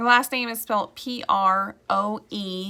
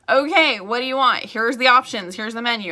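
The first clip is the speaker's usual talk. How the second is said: lightly voiced, louder, presenting each option with flair; game-show hostess; 2 semitones higher, 6 dB louder than usual. Realtor playing a hostess walking visitors through her website. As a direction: show off the menu like Vanna White. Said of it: "I Vanna White the whole thing".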